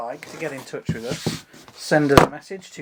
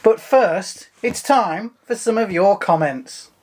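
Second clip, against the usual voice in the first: theatrical voice. Acted. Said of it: "Here comes his theatrical voice".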